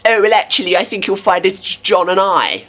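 lightly voiced know-it-all, smug; hammed-up smug corrector; mock pedant. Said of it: "you get people going".

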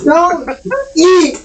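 a frustrated owner scolding the cat. Real, not acted. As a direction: tell off a naughty cat chewing confetti. Scolding the cat eating confetti.

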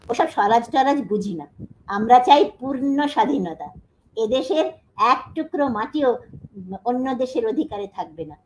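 loud, forceful recital of Nazrul's words; declaimed defiance. Retold or imitated. Lecturer voicing Nazrul's editorial to students, defiant and loud. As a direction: proclaim it like a rebel editorial. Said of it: "একদম ওর ভাষা".

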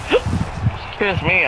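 slow, interrupted by hiccups. Real, not acted. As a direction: talk through the hiccups. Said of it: "I got the hiccups".

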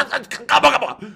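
high yelled order to shut up; loud shout. Retold or imitated. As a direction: bellow it over the group. Player shouting to start.

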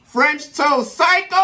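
high, slow exclaim; joyful cheer. Real, not acted. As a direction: celebrate the food. Cheering after tasting.

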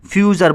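"ফিউচার" with the final r sounded; r-ending pronunciation. Shown as a demonstration. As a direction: close "ফিউচার" on an audible r. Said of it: "যখন আর ই আছে এখানে আ বলতে পারি". ("ফিউচার" শেষে র উচ্চারণ করে)

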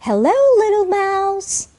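high, singsong welcome, slowly drawn out; glad greeting. Shown as a demonstration. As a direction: greet someone you are pleased to see. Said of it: "반갑게 인사해야 되겠죠".

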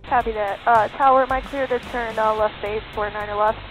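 radio transmission, compressed and tinny; pilot over the radio. Real, not acted. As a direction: speak as if keying a cockpit mic. Student pilot calling the tower.

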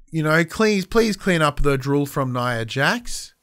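imitating a flat, unnatural line reading; mock stilted delivery. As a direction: read it like a bored, unconvincing actor. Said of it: "It was like".

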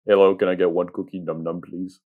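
deep voice. Retold or imitated. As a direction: say it in your deepest voice. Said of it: "in my deepest voice".

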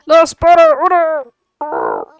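loud, high, laughing call to Bodo; laughing shout. Real, not acted. To the pilot Bodo, laughing and yelling. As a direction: yell at Bodo to hurry up.

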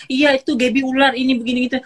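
hammed-up gossip egging her on; mimicking gossip stirrers. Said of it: "orang bisa malah memanas-manasin".

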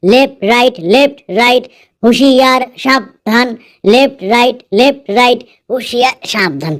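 chanting drill commands while marching; toy soldier. Pretend. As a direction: call out left right like a parade soldier. Pretends to patrol, marching. (খেলনা সৈনিকের মতো মার্চের হাঁক)

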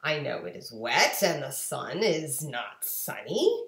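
a hint of a playful cat; Cat in the Hat. Cat tempting bored children, lightly playful. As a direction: coax them with mischief. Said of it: "And he said to us".

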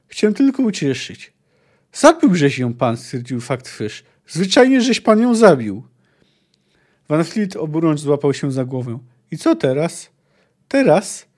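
steady read-aloud with voiced quotes; story narration. Reading the chapter to viewers, as a story narrator. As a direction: tell the grim scene as a storyteller. Reads the cabin scene aloud.

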